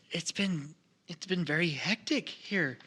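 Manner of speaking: frightened stammer. Acted. Frightened gnome stammers news.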